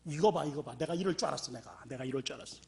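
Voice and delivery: mild disappointed I-knew-it; told-you-so grumble. Retold or imitated. Man whose stone stayed stone, lightly voiced resigned grumble. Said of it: "뭐라 그랬는 줄 아십니까".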